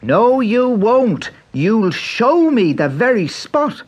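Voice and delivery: put-on high, eager young Irish boy; bright boyish Irish lad; Pat's boy voice. A narrator's reading. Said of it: "said Pat".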